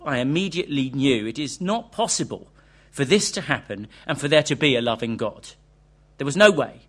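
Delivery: reads the book's interview with feeling; dramatic reading aloud. Acted. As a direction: tell it like a gripping story.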